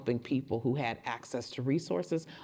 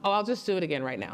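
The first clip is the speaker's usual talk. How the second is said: playful; 5 semitones higher, much faster than usual. Acted. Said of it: "pretty good ghost voice".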